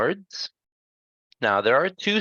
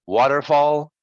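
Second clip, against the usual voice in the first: "waterfall" raised, middle er quick and light; unstressed er; 4 semitones higher, 4 dB louder than usual. Shown as a demonstration. Teacher giving student a word to try, "waterfall" with light er. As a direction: model "waterfall" clearly without weight on er. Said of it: "it's just quick".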